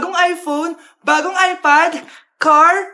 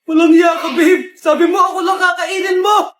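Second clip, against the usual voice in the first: angry shouting; 5 dB louder than usual. Acted. Betrayed girlfriend yelling at zombie.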